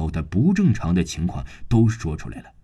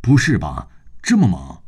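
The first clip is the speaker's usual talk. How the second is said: shouting; 4 dB louder than usual. Retold or imitated. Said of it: "大叫出来".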